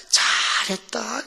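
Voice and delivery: long, drawn-out approval; drawn-out praise. Retold or imitated. Pastor commending his members' prayer team, drawn-out praise.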